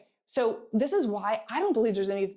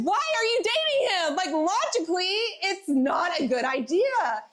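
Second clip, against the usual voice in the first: pitched way up, mock disbelief; high incredulous friend; 10 semitones higher, 4 dB louder than usual. Talking sense into a friend dating a convict, high mock disbelief. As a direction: squeak out the question in mock shock. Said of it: "You're like".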